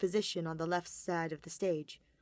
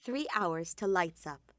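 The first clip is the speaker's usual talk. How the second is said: slow, weighty time marker; slow dramatic scene heading; slower than usual. A narrator's reading. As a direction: announce it slowly like a title. Scene break announcement.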